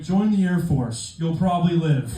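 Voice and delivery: deadpan ad pitch, slow; mock recruiting pitch. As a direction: read it like a flat slogan. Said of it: "Is that the pitch".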